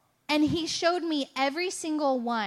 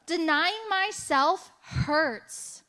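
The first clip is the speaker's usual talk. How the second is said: slow, higher, pained plea; retold pained cry; 5 semitones higher, much slower than usual. Retelling her crying prayer to Jesus, slow and pained. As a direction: ache it out slowly to God. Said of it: "full mess with Jesus going".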